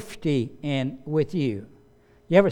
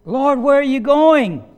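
high, loud, slow near-tearful cry; tearful plea; 9 semitones higher, 8 dB louder, slower than usual. Acted. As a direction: beg through tears not to be left. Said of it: "had tears in his eyes".

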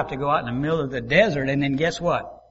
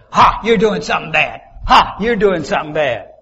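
mock accusing; 7 dB louder than usual. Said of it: "I go around and say".

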